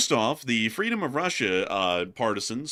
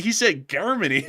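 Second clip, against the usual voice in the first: loud, amused He said Germany with a hard k; mock Russian Germany; 6 semitones higher, 3 dB louder than usual. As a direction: retell it, still stunned by the Russian Germany. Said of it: "just like a Russian would".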